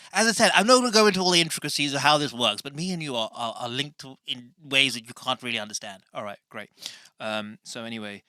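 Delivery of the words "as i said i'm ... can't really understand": high, pushy know-all character voice; Tarquin. Acted. Character explains its link to the host, high know-all voice. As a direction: start loud and quick, lecturing the host.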